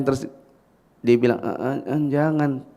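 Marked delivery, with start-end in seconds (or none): 1.4-2.7 soft, halting little "don't"; half-hearted, hesitant plea to stop; weak playful protest. Shown as a demonstration. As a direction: imitate a child's feeble objection. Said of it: "Predator semakin kayak gitu anaknya".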